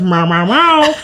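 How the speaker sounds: a mock cat meow, lightly voiced; imitating the cat's nagging meows. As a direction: meow back like a whiny cat. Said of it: "She goes".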